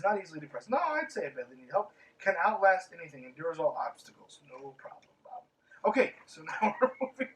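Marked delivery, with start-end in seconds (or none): 5.9-7.3 laughing. Real, not acted. Laughing while moving on.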